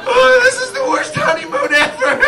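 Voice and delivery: very high, loud, hammed-up bawling; mock crying wail. Husband crying in the bathroom on honeymoon, exaggerated wailing. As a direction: sob the words out in exaggerated misery. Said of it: "I would just cry while doing".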